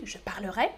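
"parlerai" the southern way; southern pronunciation. Shown as a demonstration. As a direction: keep the e in "parlerai". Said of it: "dans le sud".

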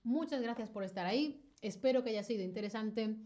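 talking with mouth full. Real, not acted. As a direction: speak through a mouthful of food. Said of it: "con la boca llena".

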